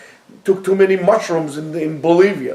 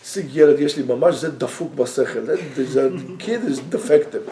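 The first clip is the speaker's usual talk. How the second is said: put-on low, soft dismissive gossip about the kid; imitating a parent muttering low that the kid is defective; hushed gossip; 4 semitones lower, 6 dB quieter, faster than usual. Imitating a parent hushing that the kid is defective, low and soft. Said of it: "people telling me".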